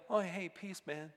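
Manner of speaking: offhand "hey, man" greeting; casual greeting. Shown as a demonstration. Preacher showing the weak version, casual. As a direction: toss it off like a laid-back hello. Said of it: "not just like a".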